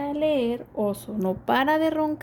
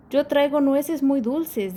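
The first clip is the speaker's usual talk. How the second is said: sonriente; 4 semitones higher than usual. Acted. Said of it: "dice Tejón sonriente".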